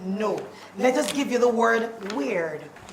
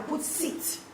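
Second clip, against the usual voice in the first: whispered example; 2 semitones higher, 12 dB quieter than usual. Shown as a demonstration. Teacher whispering the example word to class. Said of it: "Let us put an example".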